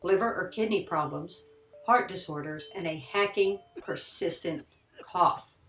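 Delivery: measured scripted voice-over with lively pitch swings; read-out intro, key words lifted; documentary narration. A narrator's reading. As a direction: narrate it like a haunted-history documentary.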